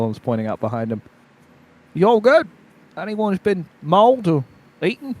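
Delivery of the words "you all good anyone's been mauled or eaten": lightly higher guard asking; casual guard checking in. Acted. GM voices guard.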